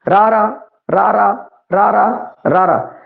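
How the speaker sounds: ਰਾਰਾ repeated four times, each one evenly spaced; letter name demo. Shown as a demonstration. Teacher naming the letter for students, careful demo. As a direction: sound out ਰਾਰਾ slowly for the class. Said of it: "ਇਹ ਦੰਤ ਪਠਾਰ ਹੈ".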